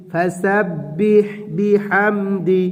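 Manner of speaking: drawn-out melodic Quran reading; slow tilawat; slow recitation. Shown as a demonstration. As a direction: recite it slowly, tune held. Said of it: "teacher joins the word".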